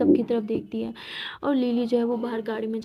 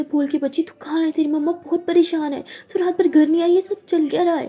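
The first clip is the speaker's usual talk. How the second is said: higher, louder agitated male friend; worried friend; 5 semitones higher, 3 dB louder than usual. Acted. Male friend on the phone scolding the missing Lakshmi. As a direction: demand answers, worried sick.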